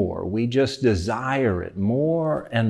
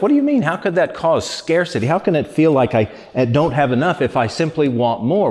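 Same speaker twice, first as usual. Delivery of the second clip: incredulous listener. Retold or imitated. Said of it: "And you think to yourself".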